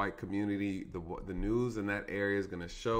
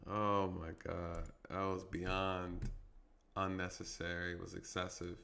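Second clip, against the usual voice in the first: slow, low, hushed disbelief; sobered dismay; 3 semitones lower, 7 dB quieter than usual. Real, not acted. Officer taking in the excessive takedown, quietly appalled. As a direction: let it sink in, soft and drawn out. Sobered after watching the replay.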